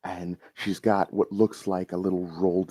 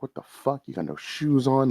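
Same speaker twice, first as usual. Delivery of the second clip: startled; 6 semitones higher than usual. Acted. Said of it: "clearly she's like".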